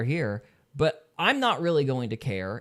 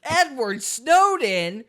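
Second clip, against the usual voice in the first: laughing; 10 semitones higher, 8 dB louder, much slower than usual. Real, not acted. Laughing guess at the joke.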